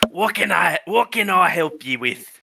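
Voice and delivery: put-on tree voice, accent drifting from Scottish; botched Scottish accent. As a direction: uncertain Scottish-Australian accent. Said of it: "I don't have any accents for you".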